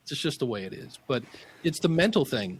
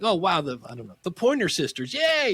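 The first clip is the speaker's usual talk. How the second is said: mock excitement; 3 semitones higher than usual. Mock fan hearing favorite song.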